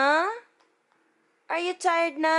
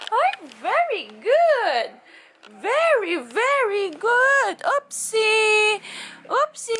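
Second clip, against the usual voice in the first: praise; 6 semitones higher than usual. Real, not acted. Praising baby.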